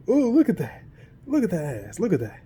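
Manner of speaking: high, put-on leering voice; squeaky mock flirt; flirty guy. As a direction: ham up the ogling onlooker.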